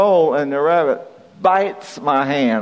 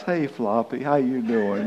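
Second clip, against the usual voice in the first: softer sweet talk to a pet; apologising to the rabbit in a softer coaxing voice; real nice; 5 dB quieter than usual. Retold or imitated. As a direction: coax the rabbit gently, softer. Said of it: "and real nice".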